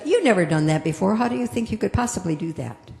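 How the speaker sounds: fast, doubting nag; critical inner voice. Acted. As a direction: rattle off the doubts quickly. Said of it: "that little voice that says".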